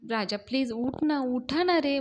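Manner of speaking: forceful acted nagging; insistent urging. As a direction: push them out of bed, loud and insistent. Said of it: "त्यांना force करतेच".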